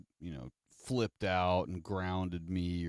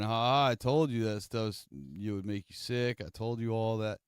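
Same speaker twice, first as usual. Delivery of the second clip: gloating mom; 3 semitones higher than usual. Retold or imitated. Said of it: "rather than her just laughing".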